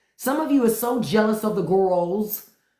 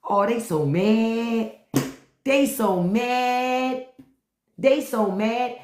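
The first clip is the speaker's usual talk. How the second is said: taunting; 2 semitones higher, much slower than usual. Real, not acted. Taunting critics, drawn out.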